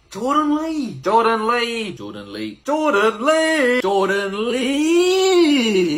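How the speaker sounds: repeated fading name echo; echo effect. Shown as a demonstration. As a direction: drop it like an echo. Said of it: "doing a little echo".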